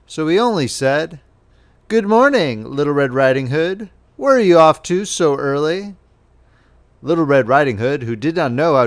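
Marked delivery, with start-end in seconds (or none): 1.9-6.0 lightly voiced wolf, higher, friendly on the surface; a hint of a wolf hiding his hunger behind politeness; sly wolf greeting. Wolf greets the girl slyly.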